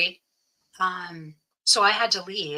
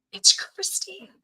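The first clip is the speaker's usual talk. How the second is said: whisper; 12 semitones higher, slower than usual. Retold or imitated. Whispering to her blind, dying sister.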